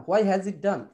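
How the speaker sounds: why as "hwai" at the head of the question; mistaken h sound. Shown as a demonstration. Teacher gives an example question, "hwai" with h. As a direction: keep the h at the front of why. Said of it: "why বলতেছি".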